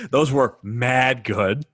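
slow, drawn-out New York slang; hammed-up New York bro; stereotypical New York. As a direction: stretch it out in a mock New York accent. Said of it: "pretend to talk as stereotypical New York as possible".

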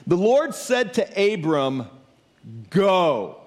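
slow, measured reading with long pauses; scripture reading. Acted. Preacher reading Genesis to the congregation, slow scripture reading. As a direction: read it out deliberately, pausing before the last word.

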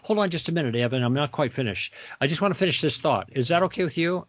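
speaking nicely. Shown as a demonstration. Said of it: "I'm speaking nicely".

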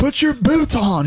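high, drawn-out character imitation; comic film quote. Quoting a funny film to bandmates, high drawn-out mimicry. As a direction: put on a slow, high-pitched movie voice.

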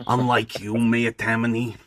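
lightly voiced gang boss tirade; a measured, contemptuous villain speech; Butcher Bill. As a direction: address a rival with theatrical scorn. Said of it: "That's Butcher Bill".

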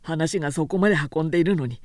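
a tired craftsman surprised she stayed; gruff craftsman. A narrator's reading. Sōshichi scolding Oyuki for staying late, low and stern.

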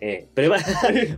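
slow cartoon-lawyer "prepárate", laughing; Simpsons lawyer. Joking over Biden's threat, cartoon lawyer impression. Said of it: "Como el abogado de los Simpsons".

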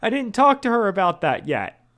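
high, loud mock-panicked call; calling from another room. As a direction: cut in urgently from the next room. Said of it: "Whit from the other room".

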